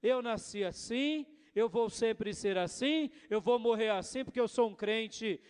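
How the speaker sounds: full pastor's sermon voice; preaching. Acted. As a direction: exhort the congregation with force. Preaching to the church.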